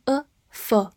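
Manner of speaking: "for" reduced to a short schwa; weak form. Shown as a demonstration. Teacher showing how "for" sounds unstressed in sentences, weak form. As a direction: say "for" weakly, with a short "uh" vowel. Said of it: "如果在句子的弱读的位置".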